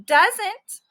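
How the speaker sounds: squeaky playful arguing; bickering guinea pig. Acted. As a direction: squabble like a tiny pet. Guinea pig bickering back and forth.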